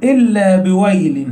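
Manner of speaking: slow recitation. Shown as a demonstration. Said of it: "هيعدها لك".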